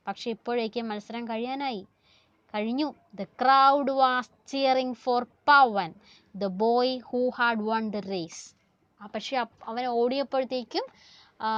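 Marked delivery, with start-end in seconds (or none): 3.2-8.4 slow, deliberate story reading; slow read-aloud. Acted. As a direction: stretch the phrases out for the class. Reads text aloud to class.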